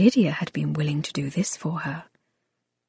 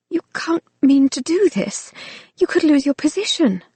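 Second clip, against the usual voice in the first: higher, urgent protest; 8 semitones higher than usual. A narrator's reading. Lucy protests to the servant risking his job, higher and urgent. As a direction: plead with him not to risk it. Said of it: "she protested".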